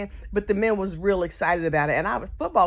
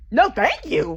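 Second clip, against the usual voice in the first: disbelieving echo; 6 semitones higher, 5 dB louder, slower than usual. Real, not acted. Repeating his refusal in disbelief.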